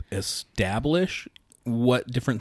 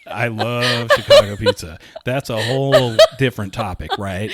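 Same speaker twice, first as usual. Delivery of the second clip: laughing; 5 dB louder than usual. Real, not acted. Laughs after friend's teasing.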